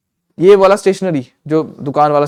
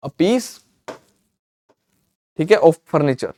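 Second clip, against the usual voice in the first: slow dictation; much slower than usual. Shown as a demonstration. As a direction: dictate "Pieces of furniture" word by word, very slowly. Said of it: "मैं लिख दूं".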